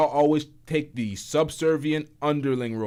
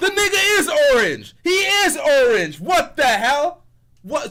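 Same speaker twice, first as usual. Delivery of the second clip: very high, slow, drawn-out shouting; 13 semitones higher, 7 dB louder than usual. Arguing with another speaker that he is orange: yelling. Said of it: "I'm, I'm yelling".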